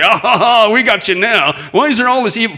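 hammed-up triumphant jeer; mock gloating. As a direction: play a challenger who thinks they have won. Acts gloating challengers of Christians.

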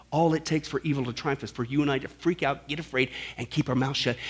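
soft restatement. Real, not acted. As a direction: bring it down close and personal. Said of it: "same quote reworked softly".

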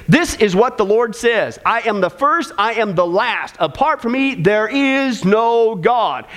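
slow, weighty words from Isaiah; solemn scripture reading. Acted. Preacher reading God's words to the congregation, slow and weighty. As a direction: let each word land like a verdict.

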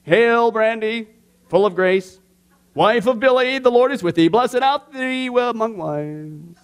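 slow, solemn liturgical chant; formal mock prayer. Pastor greeting his wife like a Hail Mary, slow mock liturgy. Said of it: "I'll be a little bit more formal about that".

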